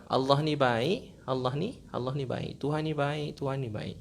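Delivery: slow, soft, repetitive chant of praise; lightly voiced disabled man repeating his mantra softly; repeated murmured praise. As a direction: gently echo the words over and over, slowly. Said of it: "Dia tak berhenti cakap kat mulut dia".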